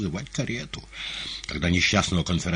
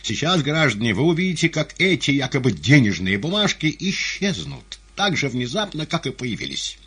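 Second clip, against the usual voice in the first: higher, louder stage announcement; showman figure; 9 semitones higher, 6 dB louder than usual. A narrator's reading. Emcee addressing the theatre audience, declaiming. Conjurer's patter in story.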